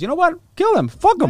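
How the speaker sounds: hammed-up dismissive yell; mock outburst. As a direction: toss it off with fake fury. Mock telling guards to kill.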